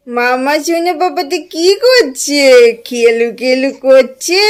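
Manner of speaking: very slow, drawn-out cooing. Real, not acted. Mother coos over her baby son at play, slow baby talk.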